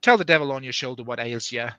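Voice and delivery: half Australian, half small-town English; muddled Australian-English accent. Acted. Reader voicing a friend's dialogue, muddled Australian-English accent. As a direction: attempt Australian with English leaking in. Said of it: "Australian father, small English town mother".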